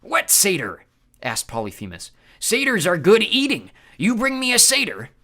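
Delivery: loud, high giant voice; hungry Cyclops. Acted. Polyphemus craving satyr, loud monster voice.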